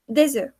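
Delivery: "Des œufs" ending on a bare vowel, no F or S; "Des œufs" said as dez-eu; silent F and S. Shown as a demonstration. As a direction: link Des to œufs with a z, final consonants silent. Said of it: "ni la F ni la S se pronuncia".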